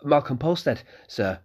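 put-on eager young innkeeper's son; young Malcolm.

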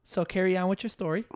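quiet, low nudge to resume; low-key prompt. Real, not acted. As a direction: softly hand the story back.

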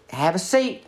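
put-on high, sugary old-lady invitation; Imogene's sweet voice. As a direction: chirp it up high like a doting hostess. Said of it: "she said to me".

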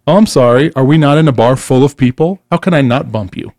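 mock apology with an edge; retold indignant comeback, pushed a little; sarcastic retort. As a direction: toss back a mock-offended question. Retold bar confrontation, sarcastic retort.

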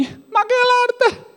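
very high, slow baffled squeak; mock baffled churchgoer. Churchgoers reacting to art in church, high baffled squeak. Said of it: "Le reazioni?".

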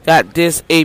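loud, cocky boast; boastful mock quote. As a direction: crow about having the power. Mocking enemies boasting of power.

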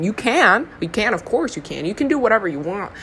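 slipping into a southern accent. Real, not acted. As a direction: let a southern accent creep into the words. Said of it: "I adopted a so-, southern accent".

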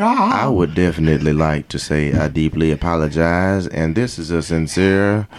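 mock deacon. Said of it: "He about to preach".

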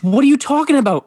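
high, acted disbelief; incredulous friend. Friend challenging his correction, acted incredulity.

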